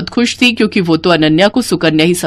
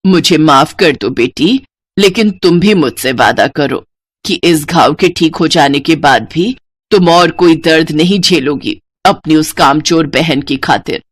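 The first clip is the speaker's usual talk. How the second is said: lovingly; 5 semitones lower than usual. Acted. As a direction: soothe her like a remorseful mother. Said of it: "बड़े प्यार से बोली".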